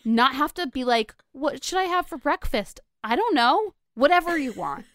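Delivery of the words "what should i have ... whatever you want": high-pitched, loud mock back-and-forth; exaggerated indecisive bickering; mock dithering. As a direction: imitate a couple stuck deciding, pitched right up. Mimics tedious couple breakfast debate.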